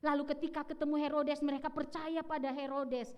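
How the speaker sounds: ordinary talk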